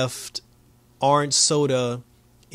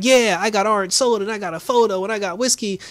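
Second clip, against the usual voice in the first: mock chorus; 7 semitones higher, 3 dB louder than usual. Everybody mocked confessing gifts.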